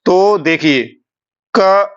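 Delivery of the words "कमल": "कमल" in separated syllables, मा raised and drawn out; udatta stress on मा. Shown as a demonstration. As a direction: lift and lengthen the मा in "कमल". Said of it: "मां पर बल लगा दूंगा".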